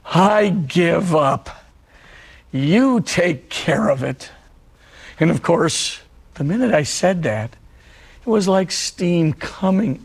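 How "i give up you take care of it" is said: slow, deliberate retold prayer; measured prayer, pausing between the two phrases; simple prayer. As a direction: draw out each phrase of surrender. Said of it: "it went like this".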